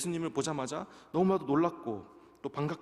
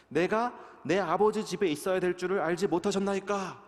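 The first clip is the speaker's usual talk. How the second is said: scripture reading; 3 semitones higher than usual. Acted. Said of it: "제가 읽어보겠습니다".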